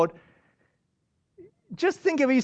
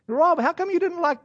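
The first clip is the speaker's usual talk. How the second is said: whiny donor. Retold or imitated. Donor complaining to pastor Rob.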